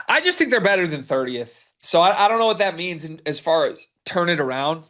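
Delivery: talking through hiccups; hiccuping. Real, not acted. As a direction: hiccups breaking in. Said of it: "I'm hiccuping as this goes on".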